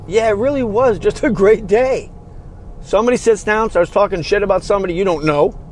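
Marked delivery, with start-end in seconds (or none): 0.1-2.1 lightly voiced chorus of friends, pitched higher; mock happy friends. Podcaster mocking friends who never say their day was great, lightly voiced. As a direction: imitate friends gushing about a great day, a bit higher. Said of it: "all four of you just went".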